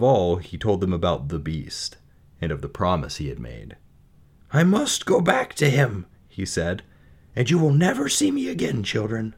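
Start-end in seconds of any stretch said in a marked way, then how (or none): 4.5-6.1 doomed resignation. A narrator's reading. Father announces his doom. 7.3-9.3 sorrowful farewell. A narrator's reading. Father announces his doom.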